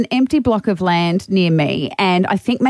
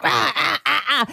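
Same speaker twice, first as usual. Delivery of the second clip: imitated bird cries; 3 semitones higher, 3 dB quieter than usual. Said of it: "They're like".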